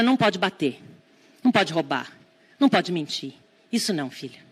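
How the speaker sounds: calmly name her feelings, then set the limit; respectful tone. Retold or imitated. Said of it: "Usar um tom de voz respeitoso".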